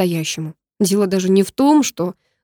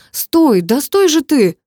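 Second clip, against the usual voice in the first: much higher, louder yelled command; shouting stop; 7 semitones higher, 6 dB louder, much slower than usual. Acted. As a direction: yell after her to stop. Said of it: "крикнул я". (громкий крик вслед)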